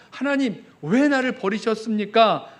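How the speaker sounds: loud, slow, aching cry to God; anguished cry. Acted. Preacher voicing the psalmist demanding an answer, loud cry. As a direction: cry out the question, drawn out.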